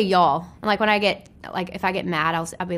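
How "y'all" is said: Southern y'all. Shown as a demonstration. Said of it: "I still say".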